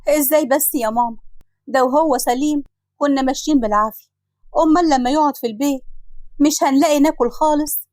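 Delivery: mildly distressed, pitch climbing through the plea; worried protest. Acted. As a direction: protest helplessly to mother. نوشة ترد على التهدئة بقلق. (احتجاج فيه قلق وحسرة)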